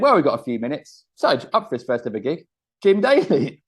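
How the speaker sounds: mock emcee, name lifted high and loud; imitated MC introduction. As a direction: bring on the next act, building to the name. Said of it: "the M C".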